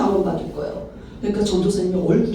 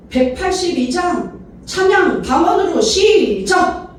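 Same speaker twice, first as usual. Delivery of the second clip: high, slow, drawn-out announcement; pastor's rallying call; 7 semitones higher, slower than usual. Retold or imitated. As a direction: call the congregation to start the hymn. 목사가 찬양 시작을 구령함. (높고 길게 끄는 목사의 시작 구령)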